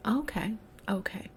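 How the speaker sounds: calm yourself down under your breath; whispered aside. Real, not acted. After ranting about HR, she whispers to settle herself.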